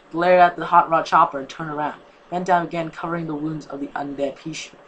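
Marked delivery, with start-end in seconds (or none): none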